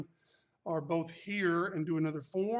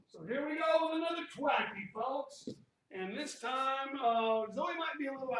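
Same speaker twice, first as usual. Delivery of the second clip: higher, showman announcer tone; 6 semitones higher than usual. Acted. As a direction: introduce it like a TV host. Announcer-style address to folks.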